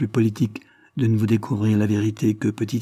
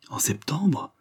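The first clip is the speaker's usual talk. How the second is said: quiet stunned echo of the date, pitch lifted; aghast at the date; 5 semitones higher, 4 dB quieter, slower than usual. Acted. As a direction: repeat it in disbelief, hushed. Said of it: "répéta-t-elle, stupéfaite".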